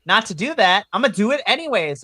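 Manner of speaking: fired-up wrestling fan vow; emphatic declaration. Real, not acted. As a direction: declare it with defiance, pumped up.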